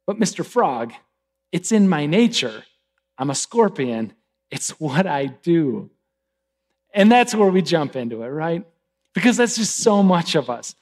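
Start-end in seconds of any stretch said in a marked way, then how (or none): 0.1-5.9 understated acted explanation, settling lower; matter-of-fact scorpion. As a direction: explain it calmly to the frog. Scorpion calmly explains its nature.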